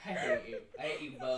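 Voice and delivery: very high, squeaky laugh-crying. Real, not acted. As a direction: squeal it through tears of laughter. Crying with laughter, mock anger.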